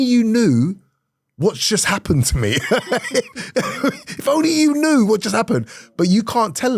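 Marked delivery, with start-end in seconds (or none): 2.6-4.1 high, rueful laughter; real laugh. Real, not acted. Comedian recalling hidden heartbreak after praise, real laughing. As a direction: burst out laughing mid-story. Laughing at what nobody knew.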